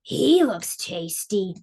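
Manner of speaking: slow, lightly voiced troll. Troll eyes the middle goat, slow and greedy. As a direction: savour the words slowly. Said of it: "gnashed his teeth and said".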